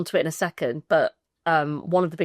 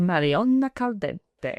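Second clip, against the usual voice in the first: put-on Spanish accent; slower than usual. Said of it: "in that Spanish accent".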